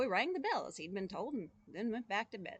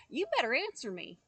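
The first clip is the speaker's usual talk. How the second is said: raised, challenging call into the dark; shouting boy; 3 semitones higher, 6 dB louder than usual. Acted. Boy challenging a silent figure in the belfry, loud. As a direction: warn the figure, voice up. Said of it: "shouted the boy".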